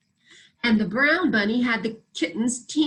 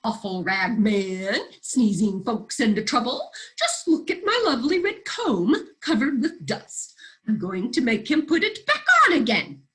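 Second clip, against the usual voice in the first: upset rooster. Acted.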